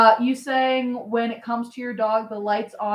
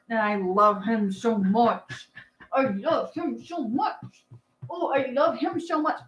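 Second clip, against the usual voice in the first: gushing. Real, not acted. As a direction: melt over how much you love him. Gushing about her dog.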